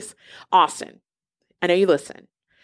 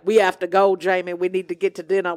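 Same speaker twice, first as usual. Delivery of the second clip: imitated Southern gentleman making excuses; thick Southern accent; 3 semitones lower than usual. Friend hurrying Jamie out to dinner, mock Southern accent. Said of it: "decided to have a very thick Southern accent".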